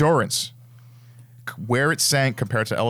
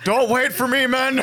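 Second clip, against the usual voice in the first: wounded soldier gasping; 12 semitones higher, 3 dB louder than usual. Pretend. Mock dying hero speech.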